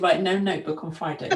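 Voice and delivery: stern rule said through a laugh; laughing mock rule. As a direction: playfully lay down the law, chuckling. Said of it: "I was very nearly gonna say to you".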